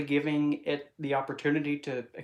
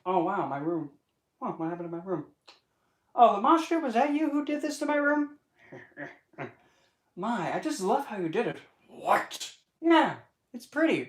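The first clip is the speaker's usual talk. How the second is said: high, sing-song mock delight; high mock-delighted coo at a trashed room; ditzy delighted voice; 6 semitones higher than usual. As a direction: coo over the wrecked room, playing sweet. Acting out reaction to the Mosh.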